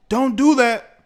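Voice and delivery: high, loud scolding "Don't do that."; mock media scold. Streamer to chat, mimicking the media in a high loud scold. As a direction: scold like a preachy pundit.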